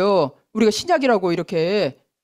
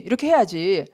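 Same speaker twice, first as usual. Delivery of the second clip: lower, falling final 해야지; lower settled lecturing; 3 semitones lower than usual. Retold or imitated. Law teacher lecturing people, lower closing tone. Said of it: "하고 율법 교사가 된다는 거예요".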